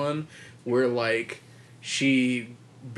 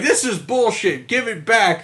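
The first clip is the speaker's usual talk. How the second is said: higher, louder mock outrage, a laugh in it; louder, higher hammed-up angry heroine; mock furious demand; 9 semitones higher, 7 dB louder than usual. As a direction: demand it back like a ripped-off customer. Heroine demanding her beauty back.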